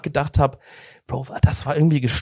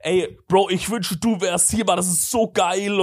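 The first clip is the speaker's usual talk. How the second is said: put-on drunk; 4 semitones higher than usual. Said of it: "alles so extra die Worte falsch machen".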